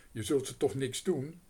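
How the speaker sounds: put-on scared girl's shout; frightened cry. A narrator's reading. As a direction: cry out in fear for the mice. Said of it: "riep Otje verschrikt".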